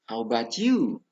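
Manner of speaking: "How about you" loud, lifted then falling; intonation drill. Shown as a demonstration. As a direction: raise the pitch on "about you", then drop. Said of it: "Jadi saya ulangi".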